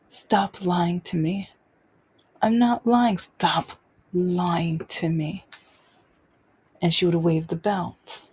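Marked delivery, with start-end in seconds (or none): 0.1-1.5 slow, lightly imitated maternal accusation; toned-down harsh mother. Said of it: "not even saying it as harshly as she does". 2.4-3.2 higher-pitched retold denial; protesting child. 3.2-5.4 slow, lightly imitated maternal accusation; toned-down harsh mother. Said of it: "not even saying it as harshly as she does".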